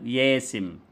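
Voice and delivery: ياسم slowly, the final -een gone; child's slow ياسم for the name; shortened child's error. Shown as a demonstration. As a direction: say ياسم, cut short after the m. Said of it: "إبدال الياء أو ترحيلها".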